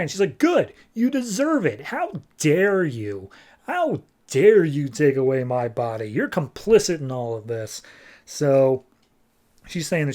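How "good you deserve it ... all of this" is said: hammed-up righteous accusation; mock raging. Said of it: "she's raging like crazy".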